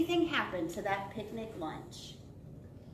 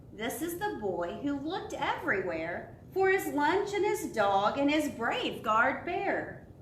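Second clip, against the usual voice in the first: sing-song storybook reading; reading to children; 3 semitones higher than usual. Acted. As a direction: read it to little ones, savouring each phrase. Reads picture book to children.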